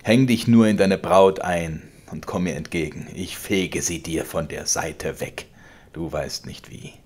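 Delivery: laut drohender alter Vater, höher und lauter; zorniger Vater. Acted. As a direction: schleudere ihm die Worte herrisch entgegen. Vater droht weiter. (der Vater droht dem Sohn, laut und herrisch)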